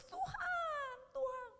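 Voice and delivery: high, pleading mock cry to God; imitated tearful prayer. Acting out a servant praying for someone, imitated weeping. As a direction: act out a weeping call to the Lord. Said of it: "dia nangis".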